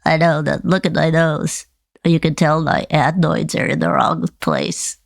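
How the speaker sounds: puppet with a slight head cold; lightly congested ventriloquist's puppet; stuffed-up puppet voice. Pretend. Puppet explaining its adenoids to Nana, slightly stuffed-up voice. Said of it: "You sound like you have a cold".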